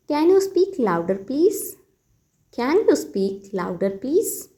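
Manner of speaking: very slow, teacherly model phrase; slow model sentence. Shown as a demonstration. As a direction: spell it out slowly for learners. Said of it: "तो इस बात को आप कहिए". (बहुत धीमे, सिखाने वाले अंदाज़ में)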